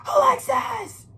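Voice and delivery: long, high, loud cries; dad screaming her name. Retold or imitated. Dying father calling his daughter, loud, high and drawn out. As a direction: call out the name slowly, in full alarm. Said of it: "screams out".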